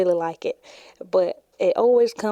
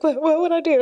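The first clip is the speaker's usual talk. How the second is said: sister's voice; 10 semitones higher, 6 dB louder, faster than usual. Retold or imitated. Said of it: "And she's like".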